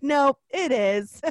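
slow singled-out punchline; mock blunt verdict. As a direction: draw out the comic dashing of hope. Blunt reply to mock hope.

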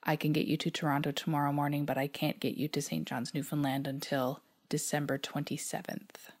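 flat, bored clerk voice; monotone voice. Retold or imitated. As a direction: recite it like a tired clerk. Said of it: "in a monotone voice".

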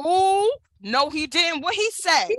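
mock shock. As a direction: retell it as a gossip-hungry, scandalised mom. Mother acts out shocked reaction.

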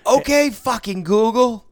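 very high, loud, drawn-out yell; retold screaming. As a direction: slowly scream a fed-up voice command.

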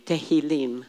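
Tehillim said clearly as teh-hee-LEEM; repeat-after-me Hebrew. Shown as a demonstration. Teacher has class repeat after her, Tehillim modelled clearly. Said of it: "repeat after me".

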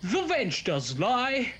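lightly voiced stage declamation; hammed-up Shakespeare for the cops; mock Shakespearean. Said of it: "classically trained in Shakespeare".

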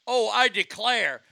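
slow, drawn-out mock Southern accent. Host mocks British actors playing Southerners, mock Southern accent. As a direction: lightly imitate a badly done Southern accent. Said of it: "y'all can't do a fucking accent".

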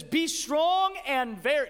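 emphatic scripture reading, "very" stretched; stress on very. Real, not acted. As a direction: lean hard and slow on "very".

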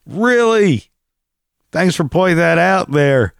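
squeaky mock amazement, pitch way up; sarcastic. Real, not acted. Vlogger sneering at an actor's PSA line, sarcastic. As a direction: fake awe at an obvious statement.

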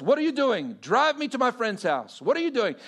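demanding, in a put-on Russian accent. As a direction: imitate an indignant Russian-accented woman. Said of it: "thick, heavy Russian accent".

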